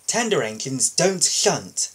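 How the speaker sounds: huffy. Acted. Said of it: "huffed Henry".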